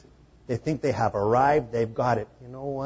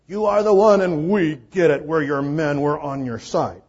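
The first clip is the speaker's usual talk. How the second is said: eager disciples; 3 semitones higher, 9 dB louder than usual. Retold or imitated. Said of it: "they're saying".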